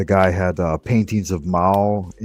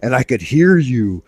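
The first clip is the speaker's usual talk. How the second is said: lightly voiced accusing girlfriend, louder; imitated girlfriend; 4 semitones higher, 5 dB louder than usual. Girlfriend confronting him about nobody home, lightly imitated. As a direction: raise it a little as the mock-accusing girlfriend. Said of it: "and she's like".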